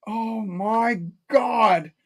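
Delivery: slow, stretched-out retold exclamation; drawn-out disbelief. Retelling his reaction to friends, drawn-out disbelief. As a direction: drag each word out in mock disbelief.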